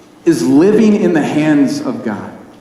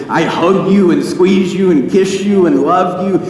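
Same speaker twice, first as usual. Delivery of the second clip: Elmira; 4 semitones higher than usual. Retold or imitated. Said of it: "She'd say".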